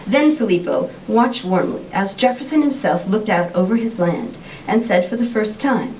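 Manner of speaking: expressive, measured book reading with lifted phrases; storyteller's lively, deliberate delivery; story reading aloud. A narrator's reading. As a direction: read the excerpt aloud to an audience, clearly phrased. Reads story excerpt aloud.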